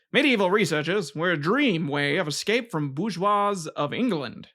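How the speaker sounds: lilting vintage newsreel announcer voice; old-timey announcer. Acted. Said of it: "spoke like the old-timey announcer".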